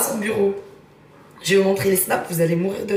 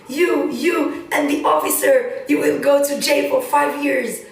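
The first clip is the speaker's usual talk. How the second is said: higher, louder, slow furious English threat; angry officer; 5 semitones higher, 4 dB louder, slower than usual. Retold or imitated. Officer losing it, threatening them with jail. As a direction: spit out the threat slowly and loud. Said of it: "il pète un câble et il dit".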